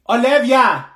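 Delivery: slow, loud call of her name. Acted. Girl calling her distracted friend, drawn-out loud call. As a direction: drag the name out to get her attention.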